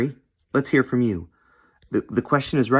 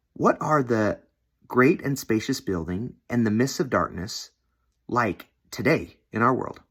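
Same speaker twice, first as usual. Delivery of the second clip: gentle, non-confrontational. Shown as a demonstration. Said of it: "you can tell in my voice, it's not confrontational".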